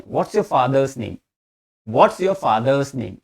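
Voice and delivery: "what's" run together as one word; slow linked "what's yo faa-dhuhz name"; sandwiched words. Shown as a demonstration. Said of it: "what और इसको sandwich कर लें".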